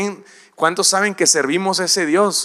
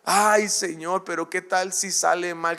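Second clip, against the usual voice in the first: worried plea; 3 semitones higher than usual. Acted. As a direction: sigh out a timid worry to the Lord. Moses worries it will fail.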